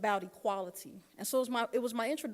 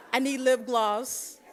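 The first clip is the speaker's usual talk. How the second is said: laughing, slow; 3 semitones higher, 10 dB louder, slower than usual. Retold or imitated. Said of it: "And I'm like".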